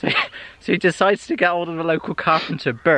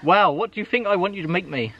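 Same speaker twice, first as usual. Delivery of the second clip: lightly put-on posh lord; a hint of the lordly employer; 3 semitones higher than usual. Lord quizzing his carpenter, lightly posh voice. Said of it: "It's my posh voice".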